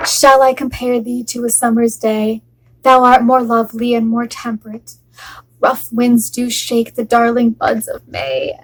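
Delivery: lightly recited verse; a wife reciting a love sonnet to her husband. Acted. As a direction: read it like a love poem. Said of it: "I've written you a love sonnet".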